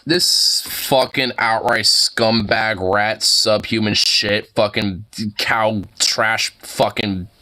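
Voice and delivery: slow, spitting string of insults; swearing tirade. Real, not acted. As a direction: drag out every insult with contempt. Insult string at Matt Walsh.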